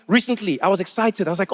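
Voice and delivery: ordinary talk, nothing marked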